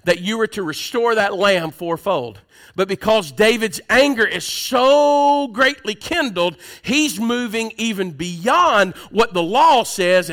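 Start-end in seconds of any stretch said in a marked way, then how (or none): 2.7-10.3 slow and emphatic; slow, weighty pulpit delivery; building preaching. Acted. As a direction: preach it with rising heat. Preaching at full force.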